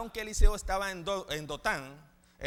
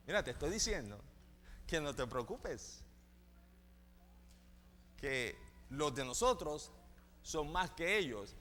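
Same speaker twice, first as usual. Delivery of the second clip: calm reassurance; 4 semitones lower, 8 dB quieter than usual. Acted. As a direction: settle the scared servant gently. Eliseo calma al criado. (Eliseo tranquiliza al criado con voz suave y lenta)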